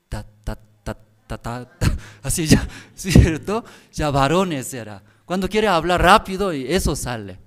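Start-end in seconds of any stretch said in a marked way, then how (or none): 0.1-1.7 repeated stuttering ta syllables; stutter demo. Shown as a demonstration. Preacher imitating a stuttering husband.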